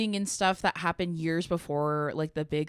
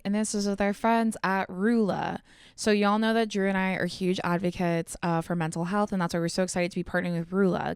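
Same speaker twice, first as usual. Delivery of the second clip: sponsor ad read. Real, not acted. Host reads sponsor ad.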